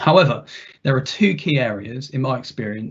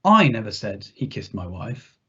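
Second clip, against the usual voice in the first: I stressed, the line lower and rising; 4 semitones lower than usual. Shown as a demonstration. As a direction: put the weight on I. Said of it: "see how the meaning shifts with a different emphasis".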